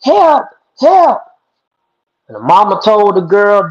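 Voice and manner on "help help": high, rising cries of help, each higher; a trapped snake wailing for help, pitching up; crying for help. A narrator's reading. Trapped snake crying out to passing girl, rising high pleas. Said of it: "Snake was crying".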